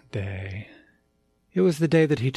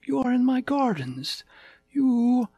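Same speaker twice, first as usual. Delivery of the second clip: tiger king voice; 11 semitones higher than usual. Acted.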